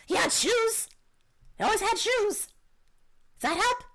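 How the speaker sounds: high, eager little kobold; high-pitched creature voice. Acted. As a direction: pipe up as an excitable kobold. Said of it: "when you do your kobold voice".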